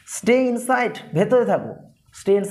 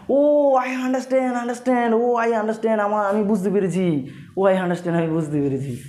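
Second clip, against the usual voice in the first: realising; 2 semitones higher, much slower than usual. Acted. Finally grasping a long explanation.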